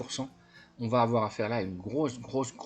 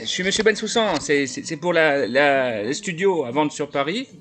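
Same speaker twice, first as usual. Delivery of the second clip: a lightly voiced eager buyer, louder and higher; naive buyer voice; 6 semitones higher, 5 dB louder than usual. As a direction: play the friendly gullible buyer, a bit louder. Plays naive buyer on phone.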